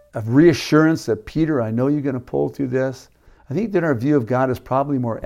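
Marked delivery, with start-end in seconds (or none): 1.2-3.1 softer, gentle encouragement; imagined Jesus encouraging Peter with compassion; reassuring. Pretend. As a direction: reassure him that he'll make it. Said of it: "a look of compassion and hope".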